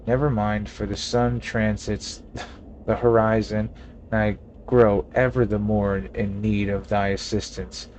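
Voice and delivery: lightly voiced old-fashioned innkeeper, stately; mock Shakespearean landlord; a hint of a pompous olde-English gentleman; archaic formal speech. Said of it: "When did you start talking like that?".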